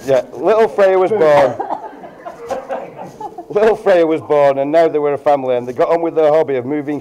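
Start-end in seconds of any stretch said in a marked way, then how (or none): 0.1-1.6 laughing through the punchline. Real, not acted. Best man laughing as he reveals the birth. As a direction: let a laugh break into it.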